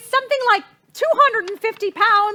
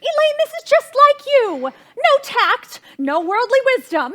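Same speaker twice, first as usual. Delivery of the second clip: raised, sharp maternal reproach; scolding; 2 semitones higher than usual. Acted. Mother scolding daughter for the blunder, in a sharp reproach. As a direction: scold her like a vexed mother.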